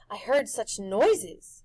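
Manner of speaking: puzzled neighbour asking; lady neighbour's voice. A narrator's reading. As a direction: Mrs Griffin puzzled, slowly. Mrs Griffin asks.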